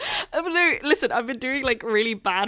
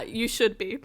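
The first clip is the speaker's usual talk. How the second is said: laughing fake reproach; mock scolding. Kat teasing the sorry storyteller with mock blame. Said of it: "I'm joking".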